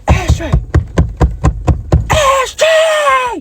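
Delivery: calling out. Retold or imitated. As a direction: yell the name trying to wake him. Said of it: "Grimy talking to Ashtray like this".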